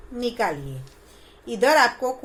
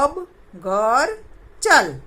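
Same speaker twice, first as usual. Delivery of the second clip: slow sentence reading; 3 dB louder, much slower than usual. Shown as a demonstration. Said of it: "कैसे? देखो".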